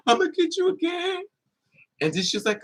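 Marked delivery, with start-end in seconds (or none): 0.1-1.2 high, squeaky threat from the bloodied guy; mock the loser's comeback threat. Bloodied opponent threatening, squeaky and high.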